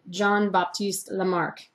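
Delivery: slow, hammed-up French accent; lightly put-on French accent; bad French accent. Shown as a demonstration. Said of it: "I know that's a really bad French accent".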